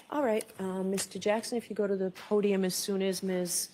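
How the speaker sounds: loud, carrying courtroom call. Real, not acted. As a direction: call out across the room. Judge calls across courtroom.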